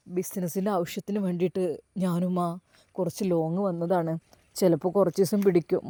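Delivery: low, soft guilty son; son's subdued voice. Acted. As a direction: hold back the truth, voice pressed down. Son hides truth from mother.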